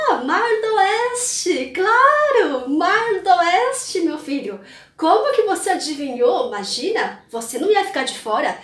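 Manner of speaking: father humouring his son with mock agreement; mocking tease. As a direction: play along while teasing him. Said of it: "Ficou tirando onda com a cara dele". (pai zombando do filho, em tom de brincadeira)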